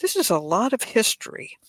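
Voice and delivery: lightly imitated academic; a hint of imitated scholarly delivery; mock academic voice. Host quoting a colleague on the show's topic, mock academic. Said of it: "said in his very academic voice".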